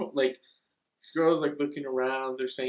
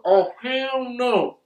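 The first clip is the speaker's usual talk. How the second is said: scared; 9 semitones higher, 8 dB louder, much slower than usual. Retold or imitated. Reacting to doll getting up.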